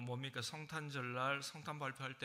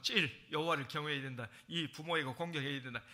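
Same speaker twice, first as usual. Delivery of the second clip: preachy parent; 2 semitones higher, 6 dB louder than usual. Retold or imitated. Parent lecturing children.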